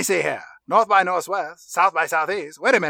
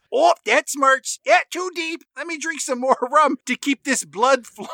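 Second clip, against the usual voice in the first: high pained pirate voice; 6 semitones higher than usual. Acted. Wounded pirate drinking rum.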